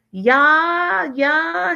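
a mocking high-voiced shrug of a yeah; lukewarm fiancé. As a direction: toss off the yeahs like he doesn't care. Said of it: "he says".

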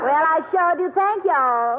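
sweet, easy Southern belle thanks; Southern accent. Acted. Singer thanks the hosts in a light Southern accent. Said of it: "I detect a little Southern accent".

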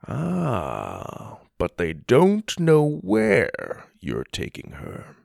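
slow knowing tease, pitch lifting. Acted. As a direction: draw it out, one step ahead. Theodore catches their secret.

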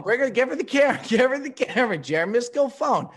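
loud, high-pitched urging; excited calling out. Real, not acted. Host calling guest's mom onto the show, loud and eager.

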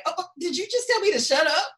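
high, quick incredulous question; mock indignant disbelief. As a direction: imitate someone affronted at being silenced. Voices Sam's shocked reaction.

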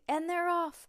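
high, loud race announcer's opening; excited cry as racers start; cried race call. A narrator's reading. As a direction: launch the race commentary excitedly. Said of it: "cried Amy".

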